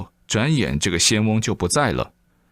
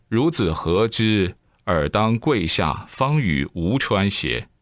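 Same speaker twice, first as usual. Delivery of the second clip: put-on slow stern old man; slower than usual. Old man orders Zhang Liang kneel.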